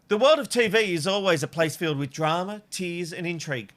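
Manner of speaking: 1 announcer read. Shown as a demonstration. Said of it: "And I'm going again".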